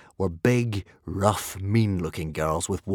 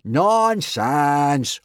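loud, raised dismissive roar; 5 semitones higher, 4 dB louder than usual. A narrator's reading. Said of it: "roared Gobber".

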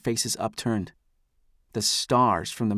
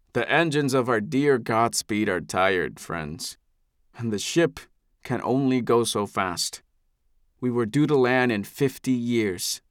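a patriarch charming his people; benevolent elder. Acted. Eldest addresses the crowd.

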